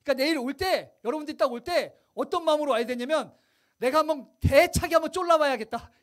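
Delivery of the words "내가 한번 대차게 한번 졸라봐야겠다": bold resolve. Shown as a demonstration. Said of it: "이런 마음으로 오는 거예요".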